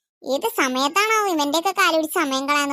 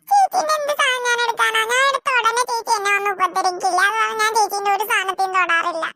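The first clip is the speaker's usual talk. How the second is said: put-on a higher, hurt little girl pleading; 4 semitones higher than usual. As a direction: protest to mom like a wronged small girl.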